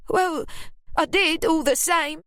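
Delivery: high, sour defiance; sour Ruby. A narrator's reading. Ruby sourly defending herself to Lily. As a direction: say it with a sour face. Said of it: "Ruby said with a sour face".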